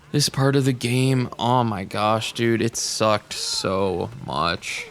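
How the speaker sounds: slow, drawn-out exasperation; fed up. Real, not acted. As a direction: drag the words out, totally over it. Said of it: "If you can hear it in my voice, I'm just, like, over this part".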